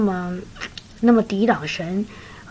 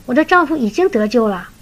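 我的丈夫已经得救了 said slightly raised, working it out; a first, wondering conclusion; dawning realisation; 2 semitones higher than usual. Retold or imitated. Sister working out her husband is saved, slightly raised. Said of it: "她突然说".

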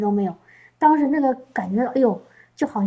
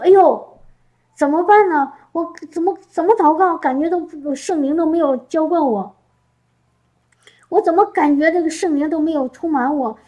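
mock panic; 4 semitones higher than usual. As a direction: act out a panicked believer crying out to God. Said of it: "我们不由自主的就会心慌".

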